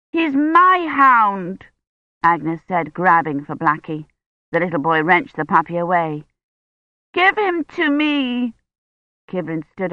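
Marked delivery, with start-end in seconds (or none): 0.1-1.7 put-on high, slow child's voice, possessive; a small girl clinging to her puppy; little girl Agnes. Agnes claims puppy from boys, high child voice. 7.1-8.5 put-on high, slow little-girl demand; a small girl insisting; demanding child. Agnes demands Blackie back, high child voice.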